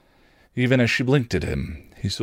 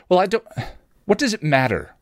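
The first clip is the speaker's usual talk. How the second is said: flustered; 11 semitones higher, faster than usual. A narrator's reading. Beth flustered by Anya's question, high and rattled. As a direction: trip over it, caught off guard. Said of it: "Beth replied, flustered".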